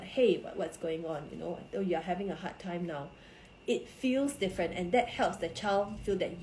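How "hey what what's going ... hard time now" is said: softer, hushed and caring; a soft, reassuring check-in; gentle, soft-spoken. Shown as a demonstration. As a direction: ease into it softly, like sitting beside a child. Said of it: "if I'm going to sit beside you and talk to you, like".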